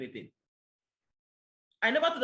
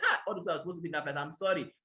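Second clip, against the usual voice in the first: fast retold apology; 3 semitones lower, faster than usual. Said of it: "I was like".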